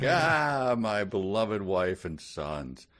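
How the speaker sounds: high swoon, then slow and sad; mock melodramatic sigh. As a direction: ham up a tragic hero. Imagined afterlife reaction.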